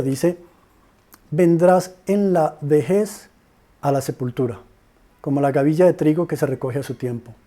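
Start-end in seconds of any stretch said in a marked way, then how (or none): 1.3-7.3 lento y solemne al leer el versículo; lectura bíblica solemne. Shown as a demonstration. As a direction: lee el verso con peso, despacio. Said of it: "que se los voy a leer". (lectura solemne y pausada del versículo)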